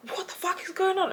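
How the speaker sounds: gasped whisper; shocked whisper. Retold or imitated. Woken at night by the shouting, gasped whisper. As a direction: breathe it out in disbelief.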